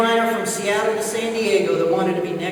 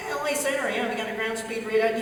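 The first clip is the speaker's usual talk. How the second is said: Bonanza pilot voice; 3 semitones higher, 3 dB quieter than usual. Retold or imitated. Twin Bonanza pilot asking the controller, lightly imitated. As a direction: imitate a chatty small-plane pilot, pitched up. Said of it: "They all talk like this".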